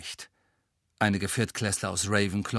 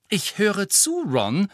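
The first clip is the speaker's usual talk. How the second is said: a touch of sharpness; 9 semitones higher, 3 dB louder, slower than usual. Acted. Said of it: "mit einem Anflug von Schärfe".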